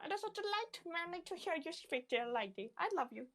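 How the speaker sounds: smitten. Acted. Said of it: "He's, he's so smitten".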